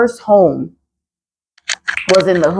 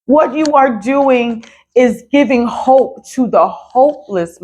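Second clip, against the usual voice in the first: getting emotional; 3 semitones higher, slower than usual. Real, not acted. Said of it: "I am getting emotional about this".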